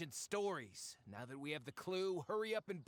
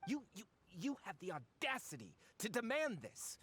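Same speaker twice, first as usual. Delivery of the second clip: indignant outrage; 3 semitones higher than usual. Acted. Treasure hunter outraged at ultimatum.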